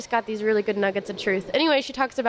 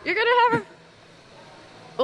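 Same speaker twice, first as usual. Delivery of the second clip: lightly voiced angel; 10 semitones higher, slower than usual. Voicing the angel Gabriel.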